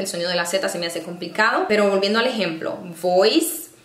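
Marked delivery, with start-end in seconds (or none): 3.0-3.7 "voice" with a V and S, rising. Shown as a demonstration. Teacher contrasting two English words, "voice" with a V. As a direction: start "voice" on V, end on S. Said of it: "con la V".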